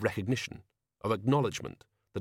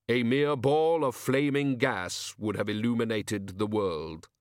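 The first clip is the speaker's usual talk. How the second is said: grim reaper voice; slower than usual. Acted. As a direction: speak as Death, slow and final. Death speaks in story.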